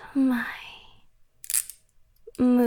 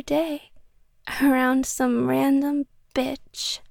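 louder jealous accusation; jealous anger; 4 dB louder than usual. Acted. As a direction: let the jealousy boil over. Jealous confrontation about coworker.

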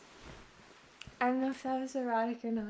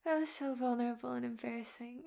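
ordinary delivery

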